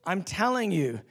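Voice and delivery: ordinary delivery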